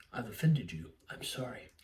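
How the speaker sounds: low, hushed imitation of contrition; mock meek apology. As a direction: drop low and fade to near silence. Voicing Keanu's meek apology.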